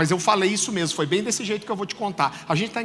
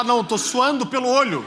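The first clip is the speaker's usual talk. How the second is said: joking reply; 5 semitones higher, 4 dB louder than usual. Retold or imitated. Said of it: "Vontade de falar".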